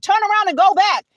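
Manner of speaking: mildly mock an officer's yell; retold yelling. Officer ordering driver to turn back, imitated mild yell. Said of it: "he started yelling and he said".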